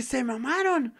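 retold outburst. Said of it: "Y dije".

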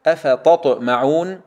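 أفتطمعون slow, light ت then heavy ط; measured model of أفتطمعون; separated taa and Taa. Shown as a demonstration. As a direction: recite أفتطمعون slowly, keeping ت and ط distinct. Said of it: "نخلص التاء من الطاء".

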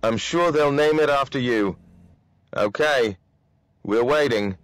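mildly excited commander; a touch of hearty cheer; enthusiastic. A narrator's reading. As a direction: encourage the jumper with approval. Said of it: "exclaimed the commander enthusiastically".

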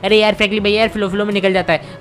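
lightly voiced child making excuses; Shinchan voice.

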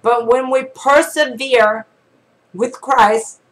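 measured, earnest reading voice; devotional reading. Acted. Preacher reading a devotional to viewers, earnest read. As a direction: read it like a daily devotional to the flock.

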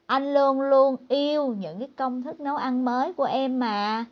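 wife setting him straight. Retold or imitated. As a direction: pull him back into line right away. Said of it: "chấn chỉnh ngay".

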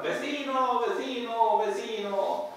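mock yells for the neighbour; calling out. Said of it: "se pone a gritar, a llamar". (llamada de auxilio imitada, aguda)

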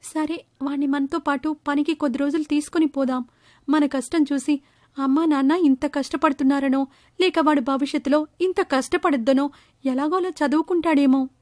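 wife soothing a worried husband; consoling mother. Acted. Mother's plan.

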